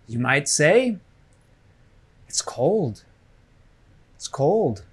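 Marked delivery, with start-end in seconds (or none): 2.3-3.0 "cold" carries the stress; teacher's model sentence with stress on "cold". Shown as a demonstration. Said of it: "The stress is on cold". 4.1-4.8 "cold" carries the stress; teacher's model sentence with stress on "cold". Shown as a demonstration. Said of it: "The stress is on cold".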